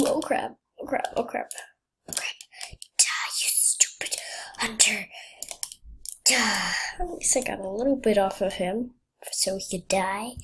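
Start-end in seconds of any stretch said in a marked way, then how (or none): 3.0-6.7 menacing whisper. Pretend. Attacking the hunter.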